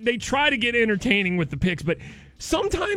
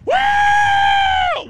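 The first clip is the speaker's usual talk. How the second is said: sneering wrestling villain; 4 semitones higher, slower than usual. Retold or imitated. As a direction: heckle the crowd like a heel. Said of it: "they just parade him out there".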